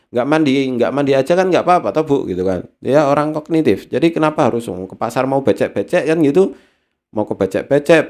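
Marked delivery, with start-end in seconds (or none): 0.1-2.2 put-on arguing child. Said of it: "dia ngomong sama ibunya".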